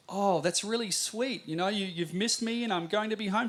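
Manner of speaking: touched father. Retold or imitated. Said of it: "I said".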